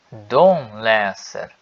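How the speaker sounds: slow, clear repeat-after-me conjugation; långsam övningsuppläsning; slow drill. Shown as a demonstration. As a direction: spell it out slowly for learners to follow. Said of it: "Sigam comigo".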